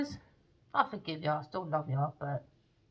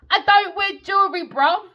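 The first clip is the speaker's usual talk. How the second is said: raised, higher voice turning down a gift; firm refusal; 11 semitones higher, 7 dB louder than usual. Retold or imitated. Telling the jeweller she won't wear jewelry, raised and high. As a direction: push the gift away, loud and high.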